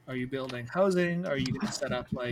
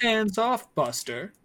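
snapped warning; 8 semitones higher, 4 dB louder, slower than usual. Acted. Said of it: "he shoves you harder".

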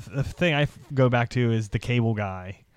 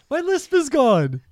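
lisp cured; 4 dB louder than usual. Retold or imitated. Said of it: "loser lisp in thirty days".

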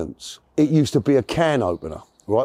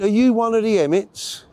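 higher-pitched mock Welsh question; Welsh accent; 7 semitones higher than usual. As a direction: imitate a Welsh prison officer, roughly. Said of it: "in this Welsh voice".

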